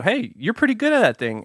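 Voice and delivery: lightly acted admiration; mock praise. Voices people praising the listener.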